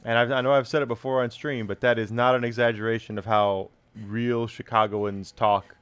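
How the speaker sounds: put-on thick Chicago Bears fan accent. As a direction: hold the Chicago superfan voice. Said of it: "this accent".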